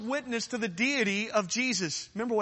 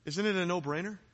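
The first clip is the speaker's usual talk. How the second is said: low, soft, slowing down; hushed conclusion; 6 semitones lower, 7 dB quieter than usual. Real, not acted. Preacher rests his case to congregation, hushed and low. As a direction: drop right down and let it settle quietly. Hushed close after forceful challenge.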